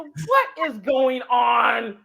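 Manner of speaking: Gail can't believe what's happening; bewildered. Retold or imitated. Gail confused.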